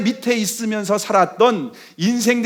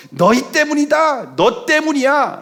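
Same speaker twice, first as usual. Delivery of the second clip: raised pitch, drawn-out mock accusation; acted blaming; 5 semitones higher, slower than usual. Israelites blaming Moses for hard brickwork, drawn-out accusing cry. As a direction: stretch out the blame, pitched higher. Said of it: "라고 하면서 막 원망을 했다는 겁니다".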